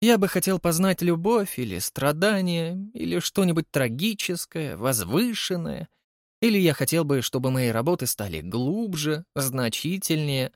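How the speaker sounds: heightened theatrical Holly voice; a vain artist musing aloud; Holly, dramatic. Acted. Holly's long monologue. (капризный художник Холли)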